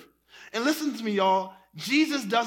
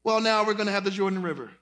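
teasing God voice; faster than usual. Retold or imitated. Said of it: "he's like".

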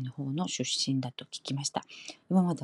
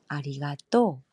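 Kansai accent; slower than usual. Shown as a demonstration. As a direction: say ありがとう lightly, Kansai style. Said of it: "이런 식으로".

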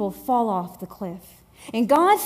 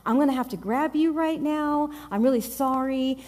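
overly gentle; 5 dB quieter than usual. Retold or imitated. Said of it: "you're real gentle with me".

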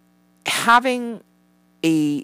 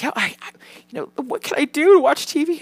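put-on higher, wheedling kid voice; imitating pleading son; 11 semitones higher, 4 dB louder than usual. Mother mimics son politely asking for TV, higher wheedling voice. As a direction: beg sweetly for TV.

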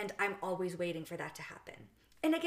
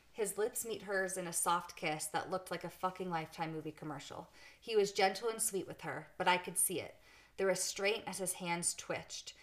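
understated audiobook-style reading; story narration. A narrator's reading. Podcast host reading a book scene aloud, measured narration.

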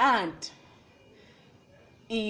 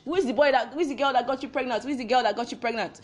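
rapid-fire mock parental interrogation; lightly voiced angry parent demanding answers; stern Nigerian parent; 3 semitones higher, much faster than usual. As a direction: fire the question repeatedly, fast. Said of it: "they don't take rubbish".

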